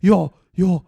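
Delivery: loud, high hammed-up amateur line; the husband brushing off his wife in a trashy soap, loud and high; mock bad actor. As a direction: overplay a wooden soap actor. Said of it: "so schlechte Schauspieler".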